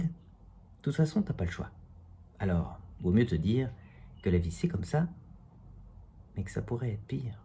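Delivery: spoken-word poem in measured phrases; declaimed verse with lifted phrase ends; poem recitation. Acted. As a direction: recite a wry poem, line by line. Recites own comic poem.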